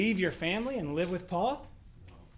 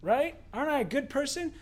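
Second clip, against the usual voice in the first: preen mockingly about how good you are; mock self-praise; 8 semitones higher, 5 dB louder than usual. Mocking his own goodness.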